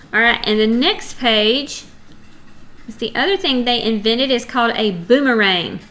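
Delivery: ordinary talk, nothing marked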